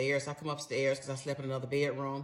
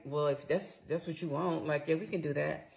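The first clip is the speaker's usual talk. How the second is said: smug; 4 dB quieter than usual. Retold or imitated. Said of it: "real smug with it".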